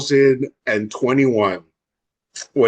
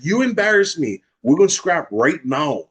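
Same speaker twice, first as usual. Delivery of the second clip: worked-up, higher-pitched challenge; retold angry challenge; 5 semitones higher than usual. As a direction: act out picking a fight.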